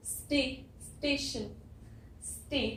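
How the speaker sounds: स्टे split off slowly, then स्टेशन; sound out syllable. Shown as a demonstration. Teacher splitting स्टेशन into syllables, slowly. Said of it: "यहाँ पे ए की sound है ए".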